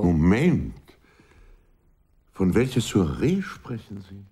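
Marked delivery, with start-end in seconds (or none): 0.0-0.7 sharp interruption. Acted.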